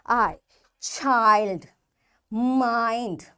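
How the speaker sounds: put-on "I, child, mind" with the long I drawn out; long I sound. Shown as a demonstration. Teacher shows pupils the long I rule, drawn-out vowels. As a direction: say "I, child, mind" slowly, stretching each long I. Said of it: "this will have its long sound".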